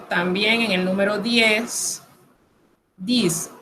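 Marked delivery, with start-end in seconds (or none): 3.0-3.5 "dis" ending in a buzzing z; French z sound. Shown as a demonstration. Teacher showing the X in ten, French z sound. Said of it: "Suena como una Z".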